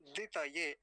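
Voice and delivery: वरुणाय very slowly, syllable by syllable; slow part demo. Shown as a demonstration. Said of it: "बस इतना बोलेंगे सबसे पहले". (वरुणाय धीरे धीरे)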